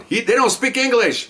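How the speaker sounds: high-pitched retold yelling; drawn-out, high mock shout. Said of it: "And I'm yelling".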